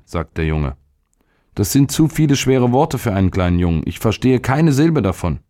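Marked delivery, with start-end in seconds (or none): 1.5-5.4 put-on high-pitched, protesting child; small boy's helpless complaint, pitched up; overwhelmed boy. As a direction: object like a confused schoolboy. Narrator voices the boy.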